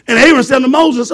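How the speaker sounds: rising preacher's call; preaching. Acted. Preacher retelling Aaron's plea, lifted. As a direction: preach it out to the church.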